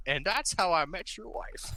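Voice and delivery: giggling through a mock dad line; laughing. Imagined dad telling his kids a joke story, laughing. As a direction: break up laughing as you say it.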